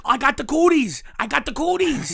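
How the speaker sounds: playfully spook her with a put-on sick voice; mock sick act. Teasing the masked woman beside him with a put-on sick voice. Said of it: "You gotta freak 'em out".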